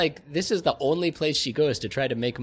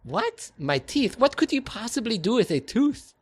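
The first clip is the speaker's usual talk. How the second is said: mock shock; 9 semitones higher than usual. Fantine shocked at the offer.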